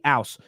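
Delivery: "house" said "'ouse", no h; dropped h. Shown as a demonstration. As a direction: drop the h on "house". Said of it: "like with a capital A".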